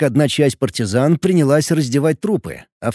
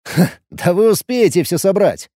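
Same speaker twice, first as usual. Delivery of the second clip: smirking; 4 semitones higher than usual. Acted. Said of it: "усмехнулся я".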